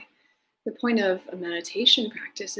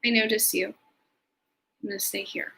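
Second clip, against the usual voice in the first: calm self-talk. Shown as a demonstration. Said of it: "and say".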